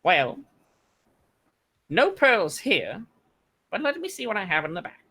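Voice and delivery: high little gnome voice; tiny shopkeeper piping up; squeaky gnome voice. Acted.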